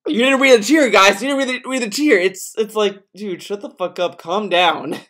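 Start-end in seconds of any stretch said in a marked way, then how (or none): 0.0-2.2 high, loud mock complaint; mocking whiny cheer. Streamer mocking a needy cheer, high mock whine. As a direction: ham up a needy viewer, higher. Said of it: "for the entire cheer to be like".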